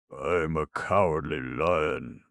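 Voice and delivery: a big beast roaring its name; husky roar. A narrator's reading. Lion answering the stone man, husky roar. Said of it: "roared the big beast huskily".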